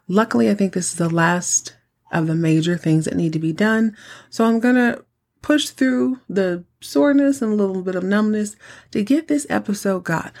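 talking with a numb sore mouth; numb mouth after dental work. Real, not acted. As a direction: speak through a numb jaw after the dentist. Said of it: "Forgive me if I sound a little bit different today".

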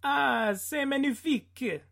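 high, theatrical French chef exclaim. Acted. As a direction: gush it like a proud French chef. Host exclaims in French after clip.

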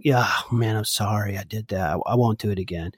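low, hurried throwaway apology; offhand apology. Acted. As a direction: toss off a half-hearted sorry, quickly. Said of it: "more than just me saying".

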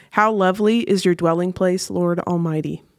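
unhurried worshipful reading; scripture reading. Acted. Reads Psalm 84 aloud.

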